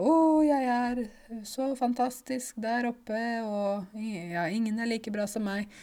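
high, airy self-adoring mock voice; conceited. Teacher mimicking someone not down to earth, airy conceit. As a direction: float up high, hammed-up self-admiration. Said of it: "Du er ikke sånn svever høyt".

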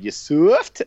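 imitating Enzo's catchphrase, punchy; mock Enzo line. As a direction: bark it like Enzo. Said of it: "if Taker would have said".

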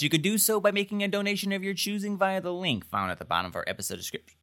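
hiccups. Real, not acted. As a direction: read broken by a hiccup. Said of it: "it happened at the same spot".

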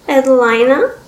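put-on young girl.

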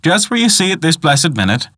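lightly voiced Irish countrywoman storyteller; old woman telling a legend. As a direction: spin a local legend as an old guide. Old woman tells her legend.

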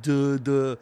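lightly voiced dopey ghost, slow and thick; dumb ghost voice. Telling a cohost about the dumb ghost, mock dopey voice. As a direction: play the dumbest ghost, barely a hint. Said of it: "like, talks like that".

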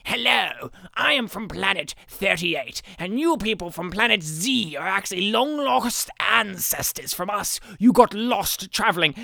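lightly voiced deadpan alien envoy; stiff alien announcer. Planet thirty-eight guy addressing the heroes, lightly voiced deadpan. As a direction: read it flat like a bad B-movie line. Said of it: "Where he's just like".

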